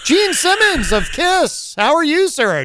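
host thrilled to hear a famous caller on air; surprised delight. Real, not acted. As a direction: gush in disbelief at who's calling. Surprised host greets celebrity caller.

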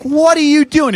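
sudden high, loud alarm. Retold or imitated. To a drunk bandmate hunting a tire iron, high startled alarm. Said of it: "And I was like".

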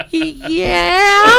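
high, loud, strained cowboy yell; shouted yeehaw. Retold or imitated. Answering rooftop guys, high strained cowboy holler. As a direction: belt it out like a rodeo cry. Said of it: "I went".

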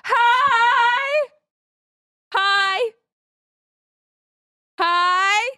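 high shouted greeting across the arena; calling from far away. Acted. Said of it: "I'm gonna yell over to the other players".

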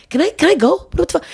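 high-pitched incredulous plea; retold outburst of disbelief; exasperated. Retold plea to leave bad date.

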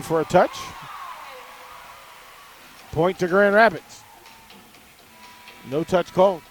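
measured volleyball play-by-play, key words punched; live play-by-play. Real, not acted. Radio announcer calls the point to listeners, play-by-play. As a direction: call the rally as it unfolds.

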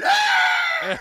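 very high mock "Ah!" scream; imitated baby yell. Host acting out his twin's birth cry, high mock yell. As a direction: squeal like the brother being born. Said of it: "all I could hear him was yelling".

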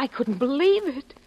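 ordinary talk, nothing marked

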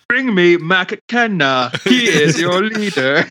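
slow, stiff machine translator voice; each word spaced out like a robot. Retold or imitated. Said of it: "like, robot voice where he's like".

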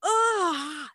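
short loud yell of frustration; frustrated scream. Retold or imitated. Reader screaming at the book, loud short yell. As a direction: let out a sharp angry yell. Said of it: "wanted to scream and be like".

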